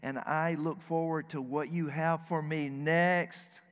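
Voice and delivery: gentle prayer, last words slowed right down; with sweetness. Shown as a demonstration. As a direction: say it sweetly, savouring the end. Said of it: "with sweetness".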